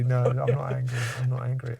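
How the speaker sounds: talking while chewing gum; words round a wad of gum. Real, not acted. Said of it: "I'm chewing gum here".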